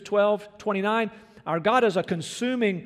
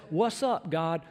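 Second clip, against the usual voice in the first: too familiar; slower than usual. Retold or imitated. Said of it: "we would never pray like this".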